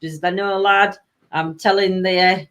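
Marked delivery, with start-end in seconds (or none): 0.0-1.0 put-on Yorkshire accent. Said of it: "That's how I speak".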